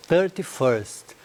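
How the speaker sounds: 「Thirty-first」をゆっくり区切って発音; slow model word. Shown as a demonstration. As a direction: say Thirty-first slowly, each part clear. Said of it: "a gente diz a data sempre ordinal".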